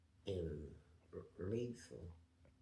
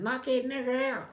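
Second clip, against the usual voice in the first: retold hollering; 12 semitones higher, 7 dB louder than usual. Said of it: "white boys hollering".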